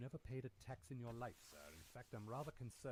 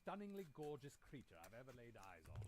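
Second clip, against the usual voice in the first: flirting; 3 semitones higher, 6 dB louder than usual. Acted. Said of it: "laying it on a bit thick".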